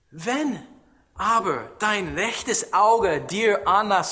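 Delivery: measured, solemn Bible reading; scripture reading. Acted. Reads a Bible passage aloud.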